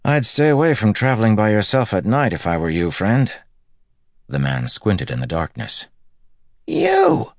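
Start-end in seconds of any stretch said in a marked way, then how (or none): 0.0-3.3 friendly warning. Acted. Matt gives friendly advice. 6.7-7.3 high squeaking shock. Acted. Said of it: "voice nearly a squeak".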